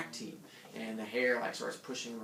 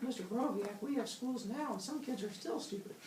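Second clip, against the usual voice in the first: high, whiny student voice; mock student; 10 semitones higher, 6 dB quieter than usual. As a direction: imitate a smart-aleck student objecting. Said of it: "Some of you guys are like".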